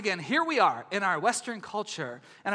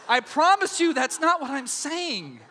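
laughing promise; 4 semitones higher, 3 dB louder than usual. Real, not acted. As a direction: promise laughing, a bit higher.

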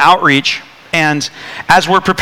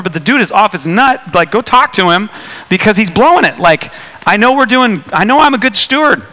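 frustrated complaint; 3 semitones higher than usual. Retold or imitated. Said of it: "I'm really frustrated".

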